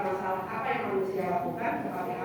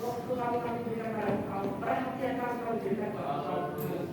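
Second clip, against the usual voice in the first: prayer. Acted. Prayer continues.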